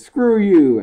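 retold angry retort. Customer storms off, retold.

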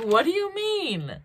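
a woman doubting her ears, mock concern; concerned mock disbelief. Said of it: "She's like".

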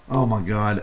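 low, resigned imitation; retold resignation. Booth guy giving in to the reviewer, resigned. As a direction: give in reluctantly, pitch dropped.

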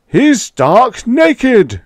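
high, loud, slow outraged bellow; roared. A narrator's reading. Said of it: "roared Fendler".

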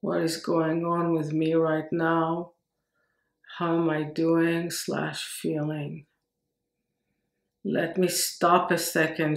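measured, reflective inward-looking meditation voice; guided meditation. Acted. Teacher modelling a pause to check in, calm guided meditation. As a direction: pose the questions gently, leaving space after each.

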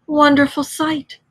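high, dreamy exclamation; entranced murmur. A narrator's reading. Toad in a trance on the road, entranced wonder. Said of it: "murmured Toad".

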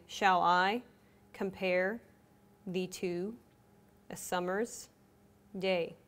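each foot set apart by long pauses; split into metrical feet. Shown as a demonstration. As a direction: read shall I compare thee to a summer's day foot by foot with gaps.

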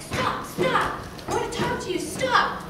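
high-pitched imitation of a kid calling out; mock scream. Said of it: "this kid starts screaming at us to stop".

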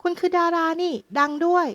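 high, excited recognition; a policeman suddenly turning into a fan; starstruck surprise. Acted. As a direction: gasp at meeting a famous actor.

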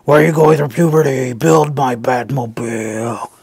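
a hint of an indignant figure; mock whiny plea to be built; mock complaining voice. Voicing complaining Lego set.

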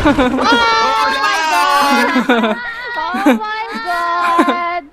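long, stretched-out cry of dismay; drawn-out exclamation. Real, not acted. Player in chaotic game cries oh no, drawn-out exclamation. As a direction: draw out every word in alarm.

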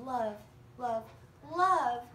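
each love bigger, last one loud; building love. Acted. Girl's letter to Santa, swelling eager love.

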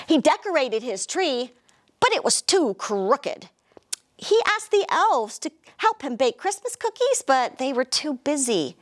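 lively storybook narration; animated picture-book reading; reading to children. A narrator's reading. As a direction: read it like storytime for little kids.

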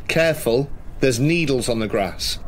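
shouting a warning. Acted. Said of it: "maybe louder than I need to".

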